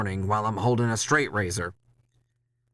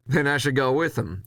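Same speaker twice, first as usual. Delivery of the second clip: eager offer; 6 semitones higher than usual. Acted. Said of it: "I say".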